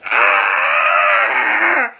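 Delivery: long, loud, low bawl; mock crying scream. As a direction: imitate Chet bawling at full volume. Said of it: "Chet cries".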